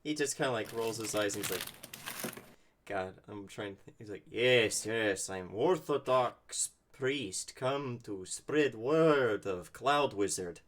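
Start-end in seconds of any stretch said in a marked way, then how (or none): 4.3-10.6 sarcastic. Acted. Sarcastic priest cover story.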